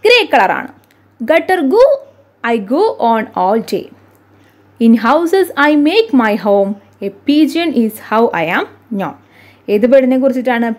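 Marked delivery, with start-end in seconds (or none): 1.2-9.1 slow, measured verse recitation; riddle reading. Acted. Teacher reads a bird riddle to pupils, slow recitation. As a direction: read each line deliberately, with swinging intonation.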